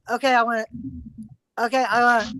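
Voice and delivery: mildly calm, halting imitation; imitated calm hesitation. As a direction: imitate someone calmly trying to get a word in. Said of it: "He was so fucking calm".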